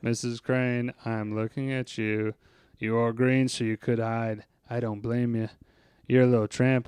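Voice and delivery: low, soft groundskeeper mumble; Carl. Acted. Groundskeeper muttering to Missus Crane, low and soft. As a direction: keep it hushed and low, talking to yourself. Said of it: "get in the Carl space".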